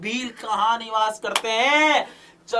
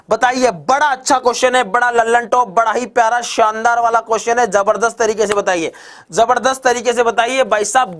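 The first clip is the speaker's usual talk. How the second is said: louder, pushing energy; rally the class like a game show host; fired-up quiz host; 7 dB louder than usual. Acted. Teacher firing quiz questions at online students, loud and energetic.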